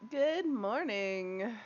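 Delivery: slow, sing-song good morning; drawn-out greeting. Real, not acted. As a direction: stretch it out lazily. Stretched stream greeting.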